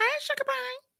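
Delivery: squeaky, very high-pitched calling voice. Showing how he calls his cat: high-pitched voice. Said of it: "in that high voice".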